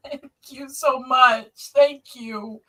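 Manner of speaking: slow, touched thanks through a laugh; emotional laughing thanks. Real, not acted. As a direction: laugh through the tears as you thank them. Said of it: "now I'm emotional".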